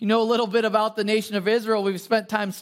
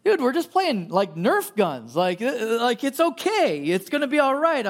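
calming; 2 semitones higher than usual. Retold or imitated. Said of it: "I'm kinda calming him".

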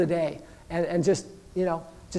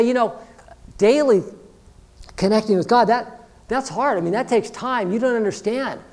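slightly raised, whiny-edged objection; acted protesting excuse; 3 semitones higher than usual. Busy congregant objecting to daily devotion, acted protest. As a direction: plead overload, piling up the excuses.

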